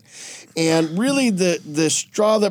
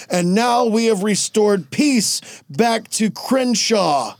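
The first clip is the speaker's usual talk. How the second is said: slow public proclamation, lightly acted; lightly voiced Superman; 3 semitones higher, slower than usual. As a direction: play a hero addressing the crowd.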